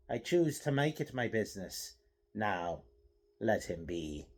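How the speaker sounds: calm menace, held back; quiet and firm. Acted. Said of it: "with an odd accent".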